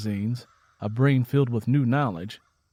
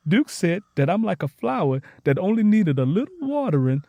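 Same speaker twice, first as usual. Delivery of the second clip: high, eager happy rush; can't get enough of learning; gushing excitement; 7 semitones higher, 5 dB louder than usual. Acted. Tangy gushing.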